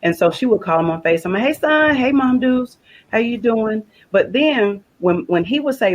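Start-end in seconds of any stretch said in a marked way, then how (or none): 1.4-3.8 bright high hello, mimicking her son; lightly voiced son, upbeat and much higher; son's cheery greeting. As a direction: chirp it like a happy phone greeting.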